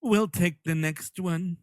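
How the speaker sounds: slow, dry, unbothered; deadpan old couple. Retold or imitated. Old couple at the crossing, slow, dry deadpan. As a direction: say it as if nothing odd just happened. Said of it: "You want the Ghostbusters couple".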